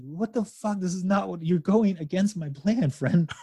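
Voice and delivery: high-pitched mock indignation; Apocalypse. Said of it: "I wanna be like Apocalypse".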